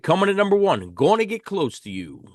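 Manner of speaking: high announcer call into the title; countdown announcer. Real, not acted. Host introducing number one in the album countdown, announcer style. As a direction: announce the top entry.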